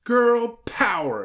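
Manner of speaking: high, slow, loud cheer; exclaiming little girl. A narrator's reading. Hilary raises her fists, exclaiming. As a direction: stretch it into a girlish rallying cry. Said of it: "exclaimed Hilary".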